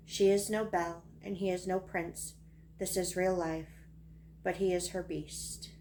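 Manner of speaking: measured storytelling verse, phrase by phrase; poem reading. Acted. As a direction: recite it as a poem, letting lines settle. Reads own poem aloud.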